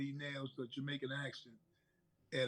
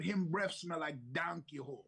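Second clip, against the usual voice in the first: put-on Jamaican accent. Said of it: "the Jamaican line that she used to say".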